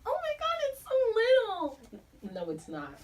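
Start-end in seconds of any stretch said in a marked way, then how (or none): 0.1-1.8 much higher, whiny fake-crying voice; mock whine. Reader complaining about tiny print, hammed-up whiny cry. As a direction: whimper it like a dramatic complaint.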